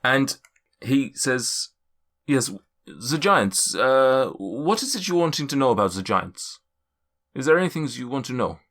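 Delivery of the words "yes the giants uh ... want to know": put-on German accent. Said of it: "gonna break accent".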